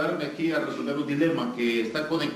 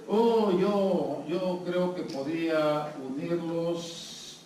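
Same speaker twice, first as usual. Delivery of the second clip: slow, drawn-out imagined answer; lightly voiced someone thinking aloud; hesitant volunteer; 3 semitones higher, much slower than usual. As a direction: stretch the words like someone working out a guess. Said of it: "si alguien dice".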